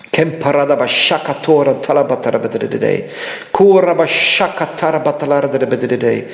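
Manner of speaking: fluent rhythmic glossolalia, rolling syllables; speaking in tongues. Real, not acted. Preacher praying in tongues over the congregation, rhythmic tongues. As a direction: pour out tongues in prayer.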